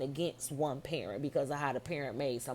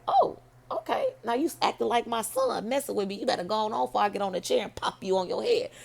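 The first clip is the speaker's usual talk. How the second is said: put-on sassy older lady; 5 semitones higher, 4 dB louder than usual. Retold lady scolding him playfully.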